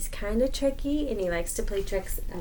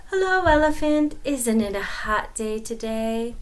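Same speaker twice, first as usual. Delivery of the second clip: sly greeting; 3 semitones higher than usual. Acted. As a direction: charm the elephant. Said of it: "Anansi greeting".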